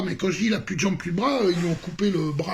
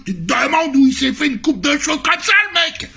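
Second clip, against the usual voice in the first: moquerie exaltée; 9 semitones higher, 6 dB louder than usual. Real, not acted. Se moque de la coiffure.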